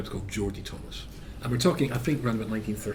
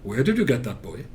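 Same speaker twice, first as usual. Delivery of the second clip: mother's Welsh lilt, rising and falling; Welsh accent. Retold or imitated. Strict mother questioning her son, in a Welsh accent. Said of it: "in her Welsh accent".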